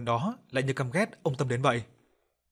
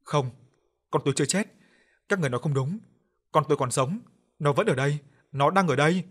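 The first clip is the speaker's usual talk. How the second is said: sobbing denial; 3 semitones higher, 5 dB louder than usual. Acted. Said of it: "Bà Cảnh khóc nức lên".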